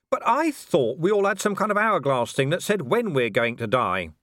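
high, urgent pleading; agitated. Acted. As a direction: press the point urgently. Man arguing with Death.

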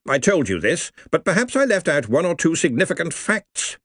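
hearty old wizard, lightly voiced. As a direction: speak like a pompous old don. Ridcully replies to Marjorie.

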